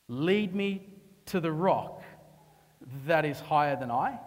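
slow tender plea. Acted. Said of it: "This is David in his hold down".

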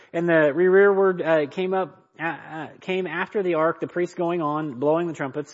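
high, loud read-aloud; scripture reading. Acted. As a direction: proclaim the verse from the pulpit.

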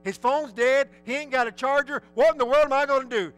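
worried parent's racing thoughts; retold panic. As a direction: panic building as the thoughts pile up. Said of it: "so I was thinking".

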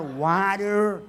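WATER drawn out as "WAH-darr"; mock pronunciation of water. Shown as a demonstration. Preacher finishing his joke spelling, water said as WAH-darr. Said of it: "how do you even spell water?".

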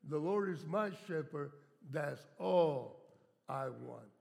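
slow, drawn-out, lightly voiced child reading; little girl's reading. Preacher retelling a little girl's reading, slow and lightly voiced. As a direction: read it slowly like a little girl. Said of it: "A little girl read that, and this is the way she read it".

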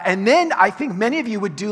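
ordinary talk

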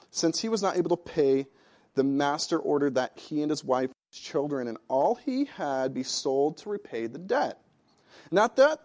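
ordinary talk

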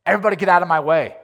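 hammed-up cranky traveler; retold grumpiness. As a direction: play your own bad mood for laughs. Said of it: "I was like".

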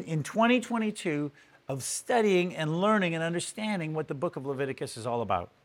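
ordinary talk

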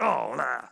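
drawn-out groan of discomfort; disgusted groan. Acted. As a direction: groan as if hit by hot air. Reacting to hot air blowing on him.

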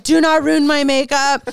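pleading with her own makeup, high and loud; mock tearful plea. Woman crying at the mall begs her makeup, mock plea. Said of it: "the pinky swipe and you're like".

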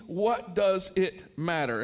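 "What does it matter?" drawn out slowly, each word weighed; slow, deliberate explanation. Shown as a demonstration. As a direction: spell out the meaning slowly. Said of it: "The word literally means".

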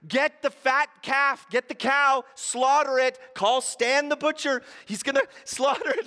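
high, loud, eager commands for the feast; excited orders. Acted. Father tells the servants to prepare the calf: loud excited orders. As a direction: bark out party orders with glee.

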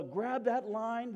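loud, high, drawn-out order; freaking out. Retold or imitated. Fisherman to crewmate in the storm, panicked shout. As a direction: imitate a panicked sailor calling out a command. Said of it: "The freaking out".

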